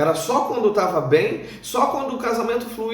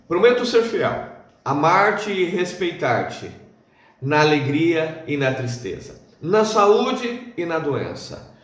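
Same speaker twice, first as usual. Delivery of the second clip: measured, solemn vow, phrase by phrase; wedding vow recitation. Acted. Speaker recites marriage vows to listeners, solemn recitation. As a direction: recite it formally, each phrase falling at its end.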